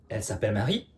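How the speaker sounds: soft question made only by lifting the end of "Marie"; question intonation. Shown as a demonstration. Teacher recapping the first question form for students, soft rising intonation on "Marie".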